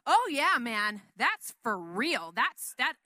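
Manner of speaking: loud, eager agreement, slow on for real; hammed-up kid brother backing his dad; imitating little brother. Preacher mimics his little brother's loud, eager agreement. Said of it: "and Samuel's like".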